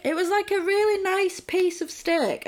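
can't believe what she's seeing; retelling a film scene, laughing and incredulous; laughing disbelief. Real, not acted. Baffled by the steak scene.

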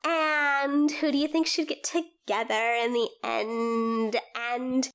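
lightly voiced Valley Girl, gossipy. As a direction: ask like a bubbly Valley Girl. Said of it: "This is the Valley Girl voice".

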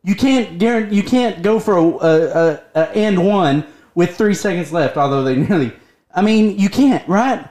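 heated, exasperated sports rant; basketball rant. Real, not acted. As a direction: vent at the bad play, rising. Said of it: "Go, go, go, go on your rant".

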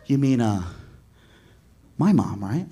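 low, unhurried correction; retold calm. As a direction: pause coolly before the key words. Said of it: "Chris is real calm".

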